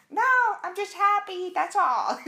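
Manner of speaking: very high and loud, bursting with happiness; bubbly joy. Retold or imitated. Answering puzzled coworkers, squealing high with joy. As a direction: gush that you're just happy. Defending her cheerfulness to coworkers.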